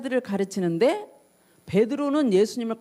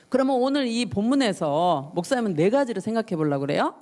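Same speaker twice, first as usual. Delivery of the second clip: normal talking voice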